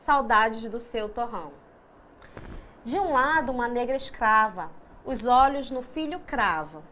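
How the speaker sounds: measured, rhythmic reading of a poem, lines shaped and falling at the ends; poem recitation. Acted. Teacher reading a Castro Alves poem aloud, steady recital. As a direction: read the verses to the class like a recital.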